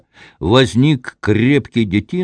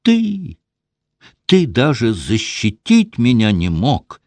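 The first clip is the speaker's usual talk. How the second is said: higher, rising accusation, voice climbing; accusing outburst; 6 semitones higher than usual. A narrator's reading. Wife accuses her husband of not protecting her, high accusing cry. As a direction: hurl the blame at him. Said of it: "сжав кулаки, двинулась на супруга".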